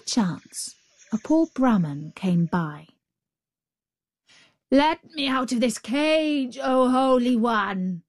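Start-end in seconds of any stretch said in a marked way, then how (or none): 4.7-8.0 crying out. A narrator's reading. Caged tiger begging the holy man, crying out. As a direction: cry out for release, voice raised high. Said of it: "cried the tiger".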